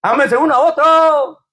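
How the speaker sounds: light Mexico City chilango lilt; chilango accent. Retold or imitated. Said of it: "como dicen los chilangos de allá de México". (con acento chilango ligero)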